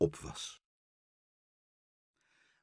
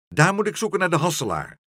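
high, loud, hurried bird voice; squawking recital; 8 semitones higher, 6 dB louder, faster than usual. A narrator's reading. Karel repeats the wrong name to meneer Pen, squawking recital. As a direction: rattle off the answer loudly.

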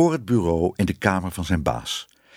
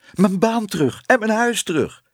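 high, louder overjoyed call; elated exclamation, pitched up high; joyful cry; 13 semitones higher, 4 dB louder than usual. Acted. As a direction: call it out, bursting with joy. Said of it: "riep hij".

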